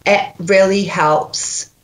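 deliberate Scottish coaching model; Scottish accent. Shown as a demonstration. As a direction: find the Scottish sound and model it. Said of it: "I've got to go back to Scotland".

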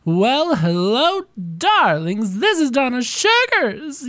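high breathy diva purr, drawn out; breathy vintage purr. Acted. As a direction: purr the greeting like an old star. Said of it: "better, right?".

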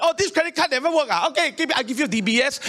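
string the caller along in a hurry; playing along. Acts out stringing scam callers along.

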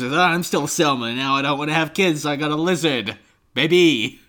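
whiny mock Selma; Selma impression. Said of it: "And she says".

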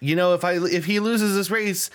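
lightly voiced Trump impression; a hint of Trump pleading; imitating Trump. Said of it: "President Trump was there ... telling the audience".

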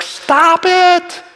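high, loud pleading shout; booming prophet's cry to stop; God screaming. Retold or imitated. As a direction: yell a warning to turn back. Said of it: "his voice gets louder and louder".

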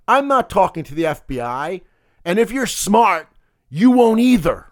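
a hint of mobster menace, no real gravel; quoting a thug's email with some push; mild mock tough-guy read. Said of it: "I was gonna try to do that in my gravelly mobster voice".

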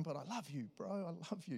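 soft, tender reassurance; tearful love. Acted. Jesus looking at Peter after the denial, tender. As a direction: forgive a friend gently, deeply moved. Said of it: "there's, like, tears in his eyes".

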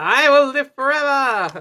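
big, slow, high proclamation; grandiose villain. Pretend. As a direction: declare it like a mad genius. Voicing Walt Disney.

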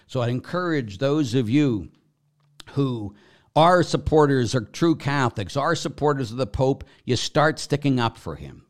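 fired-up podcast rant; heated rant. Real, not acted. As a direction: preach it out with rising indignation. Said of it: "sorry for my rant".

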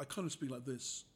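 lightly put-on hero voice; a hint of action hero. Shown as a demonstration. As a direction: demonstrate your sleep-talking hero, understated. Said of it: "that's my hero voice".

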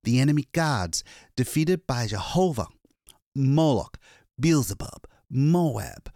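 a hunted man finally safe, still shaking; shaken exhausted man. Acted. Lois tells the attendant of his escape, frightened.

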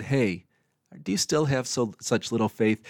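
put-on soft, gentle scolding like talking to a child; gentle reprimand. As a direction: chide them kindly and quietly. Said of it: "He, he gently reprimanded them".

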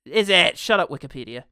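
loud comic protest, easing off slightly; mock indignant outburst. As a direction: bicker loudly in mock outrage. Mock argument over film's genre.

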